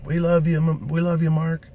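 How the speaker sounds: adoring crowd cheer. Retold or imitated. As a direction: cheer him like a crowd in love.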